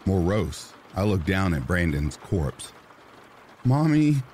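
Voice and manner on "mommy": timid voice. A narrator's reading. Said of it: "in a timid voice".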